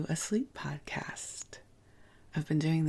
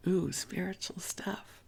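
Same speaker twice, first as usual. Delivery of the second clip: higher, hushed mock-impressed "ooh"; playful mock awe; 4 semitones higher than usual. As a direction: gently poke fun at sounding so official. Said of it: "That sounds so official".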